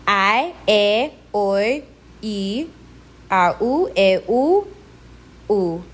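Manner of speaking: I, e, oi, i, a, u, e, u, u with vowel pairs fused; fused diphthongs. Shown as a demonstration. Teacher demonstrating diphthongs, two sounds fused into one syllable. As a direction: glide I, e, oi and the rest into single syllables. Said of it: "fuses two sounds into one syllable".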